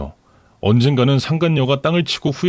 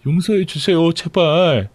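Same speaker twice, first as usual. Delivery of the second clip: higher, tearful-sounding plea from the mistress; pleading mistress; 6 semitones higher, slower than usual. Acted. Mistress begging her lover's sister for help, pleading.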